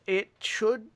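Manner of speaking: hint of a proud inventor; plain-spoken craftsman voice; lightly voiced artificer NPC.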